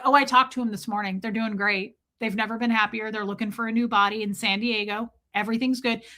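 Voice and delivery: chirpy, fast, carefree about a death; mock the cheerful denial of grief; breezy mock nonchalance. Mocking Scientologists who chat breezily about the dead. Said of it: "That's how they talk".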